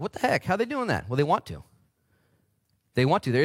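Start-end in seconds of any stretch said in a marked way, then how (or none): 0.0-1.1 mock amazement.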